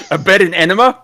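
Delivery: high, laughing disbelief. Real, not acted. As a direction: laugh at the mishearing.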